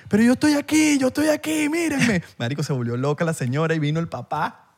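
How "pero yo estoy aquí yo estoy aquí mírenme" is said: put-on much higher pleading old woman voice; shrill-free falsetto granny begging to be seen; old lady pleading. Old woman telling her family to look at her, high pleading voice. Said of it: "la señora le ha dado una vaina".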